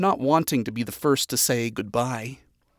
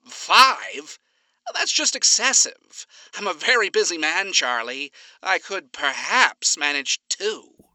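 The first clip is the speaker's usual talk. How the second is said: higher, theatrical outrage; mock indignation; 4 semitones higher than usual. Alistair bargaining over group activities, mock outraged. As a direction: haggle with exaggerated shock.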